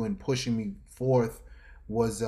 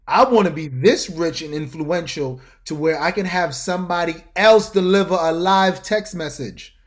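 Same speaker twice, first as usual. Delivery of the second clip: awed; 5 semitones higher, 8 dB louder than usual. Retold or imitated. Awed inner thought.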